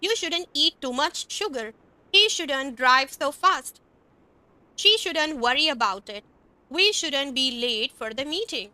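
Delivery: very slow, carefully spaced example lines; slow teacher read of examples; slow demo sentences. Shown as a demonstration. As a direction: read each example slowly for learners. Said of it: "अभी मैंने उसमें shouldn't लिखा है".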